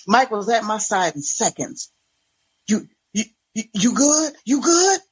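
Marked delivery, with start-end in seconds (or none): 2.7-5.0 frantic. A narrator's reading. Mike frantically asks the fallen woman if she's okay. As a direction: frantically check she is unhurt. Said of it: "Mike was frantic".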